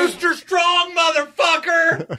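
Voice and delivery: high shouted battle cry; loud harsh voice. Acted. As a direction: bellow it like a wrestler's name. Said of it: "Stop yelling at me".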